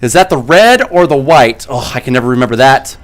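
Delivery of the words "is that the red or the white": movie character voice. Retold or imitated. Quoted movie line.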